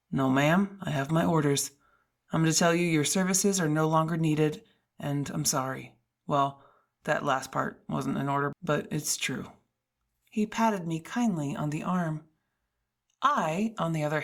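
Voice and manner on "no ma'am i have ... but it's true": lower, apologetic guard voice; a kind guard regretfully blocking her way; security guard. Acted. Guard telling the heroine she can't go up, lower and apologetic. Guard delivers firing news.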